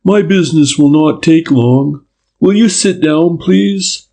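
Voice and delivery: polite inspector, gently put; detective French. A narrator's reading. French politely greets the girl he shadowed, lightly voiced.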